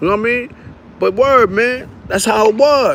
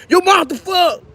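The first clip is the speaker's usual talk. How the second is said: yelling for mom; 9 semitones higher than usual. Retold or imitated. Yelling to mom, coat burning.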